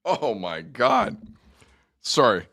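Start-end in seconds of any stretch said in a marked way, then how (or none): 0.0-1.2 strained from a strong cough candy; burning throat. Real, not acted. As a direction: gasp through the menthol burn. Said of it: "When you chomp on a cough candy".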